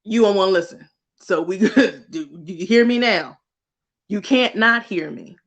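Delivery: laughing sassy auntie scolding. Retold or imitated. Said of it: "spotlight came and was like".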